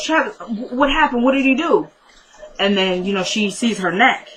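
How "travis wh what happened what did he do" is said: stammered, higher-pitched worried questions; acted alarm. Friend learns Travis did it, acted alarm. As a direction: retell a friend's rising alarm.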